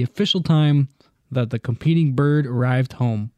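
even, measured read-aloud voice. Real, not acted. Host explains pigeon race timing to friends, reading aloud. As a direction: read it out like an encyclopedia entry.

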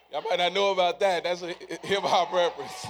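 chuckling low through the words; laughing aside. Real, not acted. Preacher laughing at his own hip-hop reference, low and chuckling.

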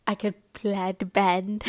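slow, laughing through the words. Real, not acted. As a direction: giggle it out slowly. Laughing at own joke.

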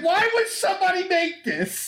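high, exasperated Harley voice; mock-annoyed complaint; Harley annoyed at the weird gun.

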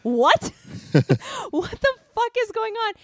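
high-pitched, laughing disbelief; retold bewilderment. Traveler reacting to guard's surprise greeting, retold bewilderment. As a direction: act out being totally thrown.

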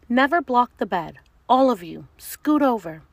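loud, high teacher voice; bossy monster teacher; stern teacher monster. Acted.

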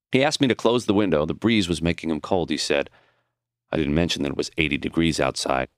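usual speaking voice

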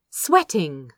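usual speaking voice

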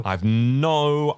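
slow Australian drawl on no idea; slipped into Australian; Australian accent. Real, not acted. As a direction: stretch "no" the Australian way. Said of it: "I said no in an Australian accent then".

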